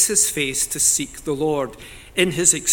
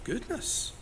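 shocked gasp; 6 semitones higher, 11 dB quieter than usual. Retold or imitated. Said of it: "You think".

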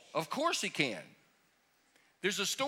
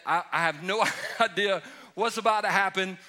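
laughing; 3 semitones higher, 3 dB louder than usual. Real, not acted. Laughs at unknown questions.

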